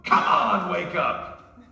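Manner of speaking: slow, high, shouted rebuke like a Brooklyn dad; preacher channeling his father's booming call; dad's voice. Retold or imitated. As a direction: belt it like a father telling you to wake up. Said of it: "I can hear my dad's voice".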